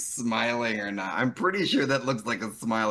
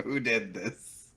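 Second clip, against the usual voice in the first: mock innocent; slower than usual. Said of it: "just looks at the camera".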